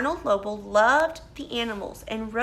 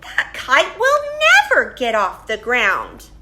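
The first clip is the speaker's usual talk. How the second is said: mocking robins; 8 dB louder than usual. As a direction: tease him like a smug robin. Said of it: "said the robins".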